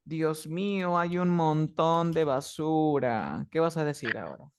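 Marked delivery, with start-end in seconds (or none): 0.0-3.5 mock dismay. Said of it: "Imagínate que llegas a tu casa".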